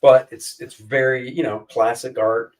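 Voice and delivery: ordinary talk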